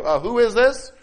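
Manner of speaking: high, loud challenge; critical suspicion. Acted. Answering a caller you don't recognize, critical and suspicious. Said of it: "Because you don't understand who it is".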